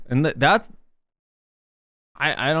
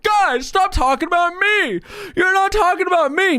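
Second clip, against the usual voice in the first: mock whiny voice; 11 semitones higher than usual. Voicing the wizards mockingly.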